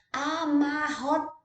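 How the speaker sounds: "Amarrotada" counted out a-mar-ro-ta-da; syllable by syllable. Shown as a demonstration. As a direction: break "Amarrotada" into five deliberate beats. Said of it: "falar de sílaba".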